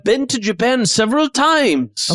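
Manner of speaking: chef protesting in character, slightly lifted; theatrical, self-important host; boastful chef character. Acted. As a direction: brag about travels as the chef.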